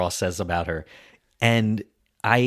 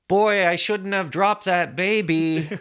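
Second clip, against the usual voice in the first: nurse voice; 10 semitones higher, slower than usual. Retold or imitated. Nurse voiced after being like.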